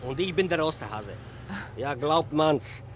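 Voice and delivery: sarcastic. Acted. Driver mocks his claim.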